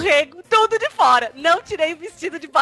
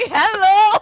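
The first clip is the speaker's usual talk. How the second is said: retold shout; 7 semitones higher, 5 dB louder than usual. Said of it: "aí o cara gritou pra ela assim".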